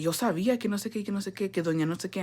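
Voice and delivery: soft mimicked Spanish chatter; imitated hushed gossip. Neighbour gossips to her mom, imitated in a hushed voice. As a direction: imitate quiet gossip running on.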